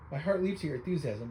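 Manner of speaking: lightly voiced eager scholar, no yawn; eccentric scholar. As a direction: clean retake in the scholar voice. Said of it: "But anyway".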